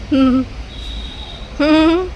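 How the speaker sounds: a closed-mouth hum of a laugh; husband's muffled laugh. Retold or imitated. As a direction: laugh inside without opening the mouth. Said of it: "वो ऐसे हंसते हैं". (पति की दबी दबी हँसी, मुँह बंद करके)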